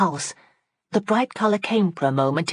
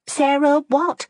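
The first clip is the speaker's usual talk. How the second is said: slow, higher, drawn-out impatient question; impatient curiosity; 11 semitones higher, 4 dB louder, slower than usual. A narrator's reading. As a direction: press her, curious and impatient. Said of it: "with impatient curiosity".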